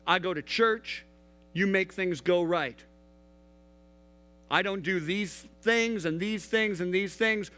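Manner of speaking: indignant complaint. Acted. Ticked man reminds God of their deal, indignant. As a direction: list the terms of a broken deal, worked up.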